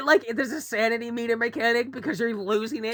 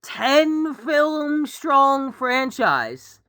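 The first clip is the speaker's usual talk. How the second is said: lightly voiced older pundit; hint of stuffy pomp, drawing out the key phrase; mock elder; slower than usual. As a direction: make a mock-formal, measured pitch. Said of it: "like a person that's sixty-three".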